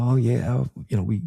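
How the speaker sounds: imitating a bubbly receptionist. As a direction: gush like an eager friendly host. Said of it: "bubbly, friendly, cheerful, nice".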